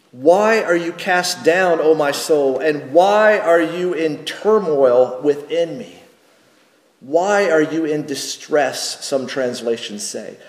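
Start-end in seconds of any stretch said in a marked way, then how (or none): 0.1-9.0 slow, measured reading of the question; scripture reading. Acted. Pastor rereading the psalmist's question, slow and measured. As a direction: read it slowly, as a question put to your own soul.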